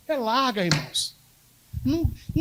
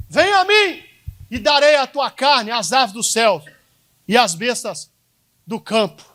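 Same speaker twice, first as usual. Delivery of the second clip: taunting giant; 4 dB louder, slower than usual. Acted. Pastor voices the Philistine's taunt.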